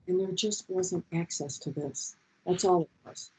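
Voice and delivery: withheld voice. Shown as a demonstration. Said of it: "I remember my mother talking like this".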